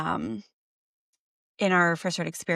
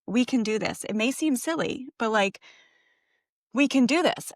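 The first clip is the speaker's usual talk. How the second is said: higher-pitched retold triumph; mildly acted can-do excitement; retold elation; 4 semitones higher than usual. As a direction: imitate thrilled, hopeful parents. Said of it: "so on cloud nine".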